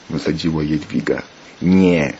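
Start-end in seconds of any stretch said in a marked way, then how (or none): 1.6-2.1 loud, abrupt refusal; interrupting. A narrator's reading. Jacek cutting Jadwiga off, interrupting refusal. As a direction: cut in with a louder no. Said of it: "przerwał Jacek".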